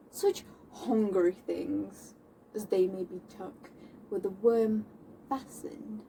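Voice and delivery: restrained scorn with long pauses; deliberate dramatic verse, mostly held in check; Moll. Acted. Moll denouncing men who prey on women, restrained contempt. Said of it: "I'll be playing Moll".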